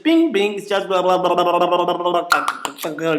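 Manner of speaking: mock gibberish. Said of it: "that's all you're hearing".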